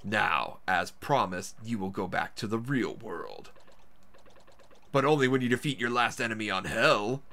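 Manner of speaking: low, soft storybook narrator; game narrator voice. Acted. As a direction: read the cutscene lines low and hushed. Reads game narration aloud.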